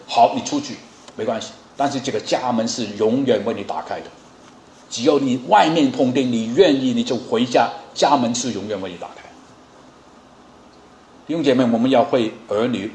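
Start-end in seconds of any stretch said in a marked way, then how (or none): 0.1-9.3 gentle, welcoming. Shown as a demonstration. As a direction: tell the child the door stays open. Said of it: "这句话要跟他讲着".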